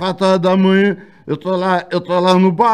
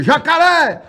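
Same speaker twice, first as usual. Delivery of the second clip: calling out; 11 semitones higher, 3 dB louder, much slower than usual. Retold or imitated. Calling out to the drunk.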